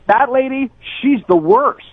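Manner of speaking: imitating a loud rude diner; mock loud voice. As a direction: ham up her loud put-down. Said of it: "in a really loud voice".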